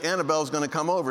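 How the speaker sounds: normal talking voice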